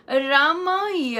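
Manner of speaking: "रामाय" slowly, raa-maay, ending on a clear y; slow careful. Shown as a demonstration. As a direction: stretch out "रामाय" with the final y. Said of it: "तो हम रामाए बोलते हैं".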